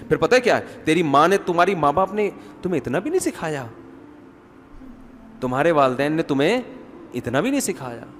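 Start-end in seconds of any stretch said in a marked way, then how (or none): 0.8-3.6 mock reproach from a mother-in-law; lightly acted taunt, rising and falling; scolding mother-in-law. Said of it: "ساسیں کہہ رہی". 5.4-8.0 measured, politely worded mock reproach; lightly acted calm mother-in-law; unhurried taunt with a pause midway; very calmly. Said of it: "بڑے آرام سے کہے گی".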